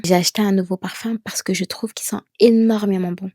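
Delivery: confident, énormément leaned on; certain statement. Shown as a demonstration. Teacher shows a confident sentence about her perfume, assured. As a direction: end the sentence with full certainty. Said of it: "finir tes phrases avec certitude".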